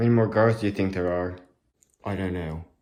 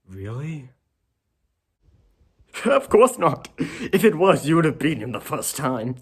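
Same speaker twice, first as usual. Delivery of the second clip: loud, high cackling scoff; laughing mockery; 6 semitones higher, 3 dB louder than usual. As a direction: laugh right in his face. Mocking the hero's hope.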